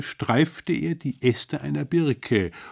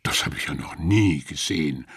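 astonished guest; 7 semitones lower, faster than usual. Acted. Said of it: "sagte ein Mann".

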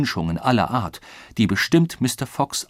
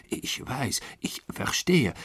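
hesitant, soft reply; placating; 3 semitones higher, 5 dB quieter, slower than usual. A narrator's reading. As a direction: give in meekly to calm him. Servant placates the angry colonel. (zaghaft beschwichtigend)

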